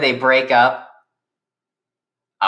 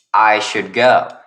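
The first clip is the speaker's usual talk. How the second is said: slow, louder character line; reluctant, drawn out; 4 dB louder, slower than usual. Acted. Josh tells Rat Girl Genius he must leave, slow and reluctant. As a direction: draw the words out.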